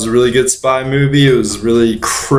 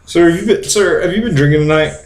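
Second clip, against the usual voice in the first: bossy traffic cop interrogating; lightly voiced bullying cop; power-drunk cop. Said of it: "I'm a cop drunk with power".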